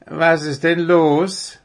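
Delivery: slow, high sleepy question; drawn-out, just-woken owl voice. A narrator's reading. Owl roused by the deer asks, sleepily. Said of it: "fragte der Kauz verschlafen".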